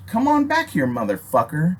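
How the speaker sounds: high shouted call across the street; yelling come back here; yelling after him. Retold or imitated. Yelling after fleeing attacker.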